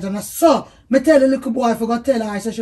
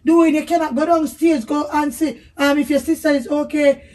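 scolding; 2 semitones higher, 4 dB louder than usual. Real, not acted. Wife scolding husband.

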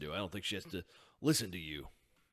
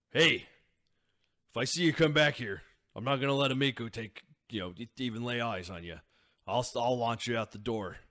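louder, higher warning shout; protective threat; 4 semitones higher, 5 dB louder than usual. Acted. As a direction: warn him off, loud and fierce. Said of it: "Lars would say".

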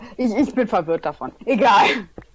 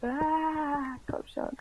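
whispering; 7 semitones higher, 7 dB quieter, much slower than usual. Real, not acted. Struggling in the game.

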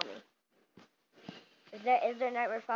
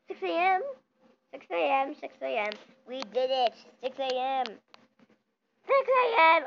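excited shout; 3 semitones higher, 8 dB louder than usual. Real, not acted. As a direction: yell it out in triumph. Surviving the night in horror game.

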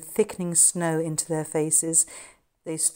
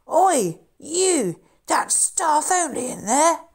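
much higher, loud Harry yelling through the door; shouting; 11 semitones higher, 6 dB louder, slower than usual. Acted. Harry outside the door at the stranger, loud shout. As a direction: bellow the warning at intruders.

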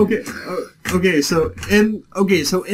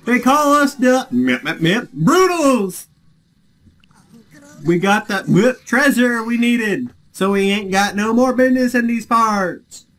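put-on slow, higher mobster-ish accent; Boston accent attempt; 7 semitones higher, slower than usual. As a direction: drawl it like a tough Boston thug. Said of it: "I can't do a Boston accent".

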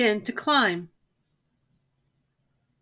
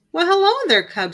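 folksy greeting; 8 semitones higher, 4 dB louder than usual. A narrator's reading. Old farmer woman greets cub.

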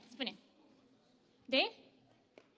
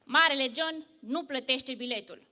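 a proud, booming announcement; loud boast; 4 dB louder than usual. Acted. Big John boasting to bus passengers, proudly loud. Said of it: "și spune tare".

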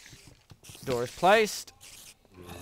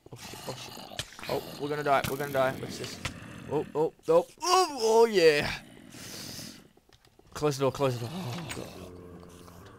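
shaky stammering panic; 4 dB louder than usual. Real, not acted. Near death, panicked.

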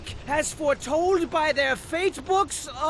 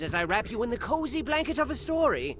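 tuck them in with a gentle tale; bedtime story narration; 3 semitones lower than usual. A narrator's reading.

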